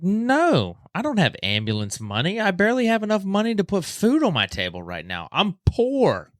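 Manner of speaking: high, frantic insistence; desperate refusal. Retold or imitated. Injured man refusing the ambulance he can't pay for, high and frantic.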